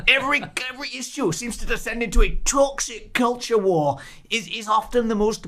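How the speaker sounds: mock Scottish accent. Redoing the resignation line in a mock Scottish accent. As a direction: parody the politician's Scottish lilt. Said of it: "should do that again, but in a Scottish accent".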